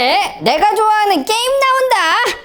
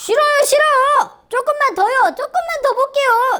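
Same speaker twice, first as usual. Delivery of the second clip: higher, angry, annoyed whining; 6 semitones higher than usual. Acting a child refusing to stop watching videos: acted anger. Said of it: "진짜 화나".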